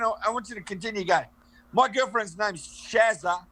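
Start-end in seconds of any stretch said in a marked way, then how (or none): 1.7-3.4 slow demonstration. Shown as a demonstration. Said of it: "go through that again".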